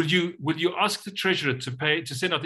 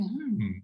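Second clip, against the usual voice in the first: curious hmm; 5 semitones higher, 4 dB quieter than usual. Shown as a demonstration. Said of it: "You become curious".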